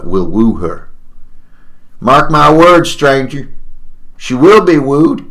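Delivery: put-on boastful old miner's tale; emphatic old-timer vow; crazy old prospector. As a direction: declare it like a lovestruck prospector. Prospector tells of his sweetheart.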